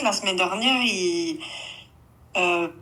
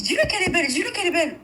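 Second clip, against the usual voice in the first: imitating boyfriend; 7 semitones higher, faster than usual. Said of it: "il me dit".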